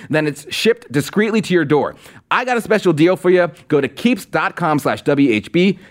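upbeat sponsor pitch, selling it; ad read. Acted. Host pitching the sponsor to viewers, upbeat ad read.

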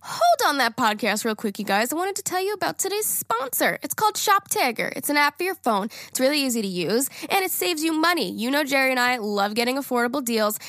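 chatty podcast ad delivery; sponsor ad read. Acted. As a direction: pitch the sponsor to listeners. Reads sponsor ad.

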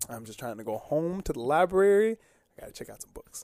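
mock meek plea. Mocking meek answer to cop.

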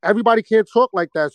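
normal talking voice

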